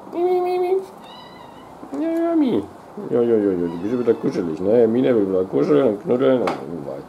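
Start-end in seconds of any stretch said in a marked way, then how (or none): 0.1-2.6 high sing-song calling. Real, not acted. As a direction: call the kitty up high. Calling the cat sweetly.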